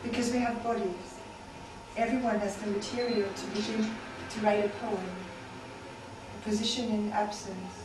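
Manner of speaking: incantatory refrain, each line falling at the end; measured poem delivery with spaced-out lines; poetry reading. Acted. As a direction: recite it as a repeating poem, pausing between phrases.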